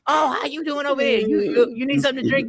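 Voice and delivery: lightly voiced hostess fussing over imaginary guests; a hint of a fussy hostess offering food; mock Lady Q hosting. Friend mocks the wife hosting make-believe guests, lightly imitated hostess. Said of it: "she has make-believe people that she goes".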